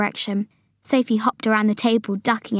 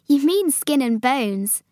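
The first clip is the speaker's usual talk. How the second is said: higher, slow voice of Sophie; Sophie correcting; 4 semitones higher, slower than usual. Acted. Sophie correcting the giant's words, amused.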